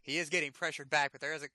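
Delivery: football commentator following the play as it unfolds; live play-by-play. Real, not acted. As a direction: call the snap and pass live.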